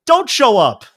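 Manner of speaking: high, punchy mock outrage; mock angry retort. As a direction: snap it back like you're fed up. Angry reply to late player.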